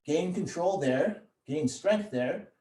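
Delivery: slowed, deliberate coaching; slow and calm. Shown as a demonstration. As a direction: draw each phrase out like a steady breath. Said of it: "breathe into that accent".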